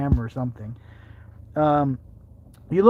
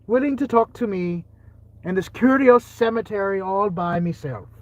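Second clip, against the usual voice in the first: put-on Irish Amish accent; 5 semitones higher, 4 dB louder than usual. Amish ghost hunter alone in a cemetery, mock Irish accent. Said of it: "my video with this Amish look".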